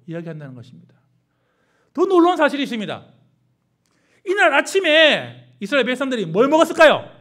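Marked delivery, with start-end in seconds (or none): 1.9-7.1 high, loud, fiery pulpit delivery; preaching at full force. Acted. Preacher rebuking the congregation over grumbling tears, fiery and loud. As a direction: thunder it at the congregation.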